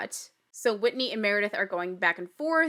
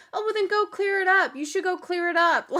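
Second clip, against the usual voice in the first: high, insistent mock voice; put-on high-pitched urging; imitated drunk woman; 8 semitones higher, 4 dB louder than usual. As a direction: mimic a tipsy friend egging someone on, pitched high. Mimicking drunk Whitney, then laughs.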